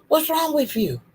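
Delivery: pointed question with "with" ending in F; F sound in "with". Shown as a demonstration. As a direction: say "with" as "wif". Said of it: "put them F's on that with".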